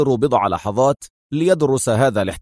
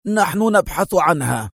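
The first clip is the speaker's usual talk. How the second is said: forceful; 6 semitones higher than usual. Acted. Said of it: "بلهجة قوية".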